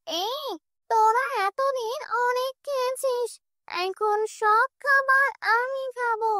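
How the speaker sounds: high, menacing witch threat; possessed mother threatening her son and his wife; angry possessed mother. Acted. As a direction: threaten them like a spirit. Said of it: "কাজল খুব রেগে যায়".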